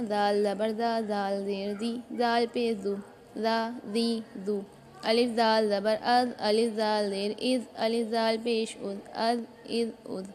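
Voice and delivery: slow drill, "जाल" with a light th as in "this"; tongue tip at the teeth for "जाल", kept thin; gentle voiced th in "अज इज उज", never heavy; thin, soft dhaal. Shown as a demonstration. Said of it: "इसको भी बारीक पढ़ना है".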